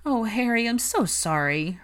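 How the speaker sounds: distressed cry, starting high, then a drawn-out "so"; crying out apology. A narrator's reading. Hermione apologizes to Harry as the portrait rants, crying out. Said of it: "Hermione cried".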